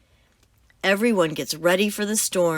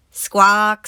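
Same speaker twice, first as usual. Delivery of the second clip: squawk; 2 semitones higher, 6 dB louder than usual. Acted. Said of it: "says the parrot".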